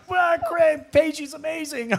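high cheerful dad voice; mock happy dad; imitating dad. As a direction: gush like a clueless delighted father. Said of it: "My dad's going".

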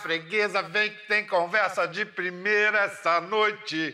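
sing-song market vendor pitch; hawking like a street seller; street vendor call. Acted. Host's playful street-vendor pitch.

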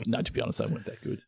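hushed confiding whisper. Real, not acted. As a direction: whisper it like a secret. Confiding aside, unvoiced.

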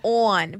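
"On" drawn toward "own", Southern style; rounded Southern vowel on "On"; imitating Southern ON. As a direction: mimic your friend's Southern "On". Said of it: "You go".

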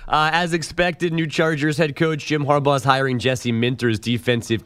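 polished radio headline delivery; scripted sports-desk bulletin; sports news read. Acted.

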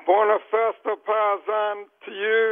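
loud, lilting Italian-style holiday greeting; booming sing song welcome. Real, not acted. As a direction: belt out a festive hello to a friend. Caller's festive Italian greeting to host.

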